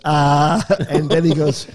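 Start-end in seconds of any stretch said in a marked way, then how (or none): 0.0-0.6 imitated thinking ah.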